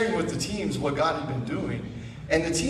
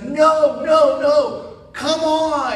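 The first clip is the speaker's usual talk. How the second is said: higher and louder, hurrying someone along; urgent call; 9 semitones higher, 5 dB louder, much slower than usual. Retold or imitated. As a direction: wave him on, no time to lose. Janitor urgently leading him to gate.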